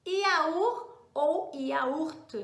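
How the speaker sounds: very slow "yaourt ou yaourt", both versions drawn out; two French variants. Shown as a demonstration. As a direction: stretch out both ways of saying "yaourt". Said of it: "Da pronúncia, que pode ser os dois".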